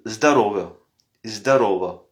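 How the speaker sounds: zdarova, short and punchy; zdarova, teacher model; casual Russian cheers. Shown as a demonstration. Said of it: "On dit simplement zdarova".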